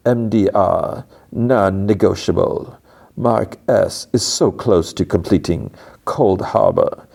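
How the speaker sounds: slow, deliberate, formal pronouncements; imitated stern manager, stately pace; demanding Cobell. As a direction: lay down terms word by measured word. Voices Cobell making demands.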